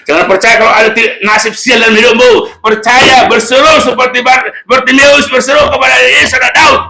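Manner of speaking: high, loud pulpit exhortation; impassioned, high-pitched preaching; full-force preaching. Real, not acted. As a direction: urge the congregation with rising force.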